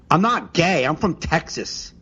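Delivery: imitating her self-evident denial; matter-of-fact certainty. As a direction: state it as settled fact, mildly mocking. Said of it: "she said it like as if you Google".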